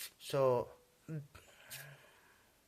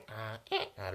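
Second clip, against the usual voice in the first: brief mock donkey noise; half-hearted donkey hee-haw; imitated donkey bray. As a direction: lightly imitate a braying donkey. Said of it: "like donkey".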